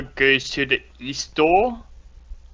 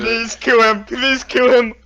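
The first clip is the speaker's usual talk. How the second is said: excited; 9 semitones higher, 5 dB louder than usual. Real, not acted. Player urges the goblin's death.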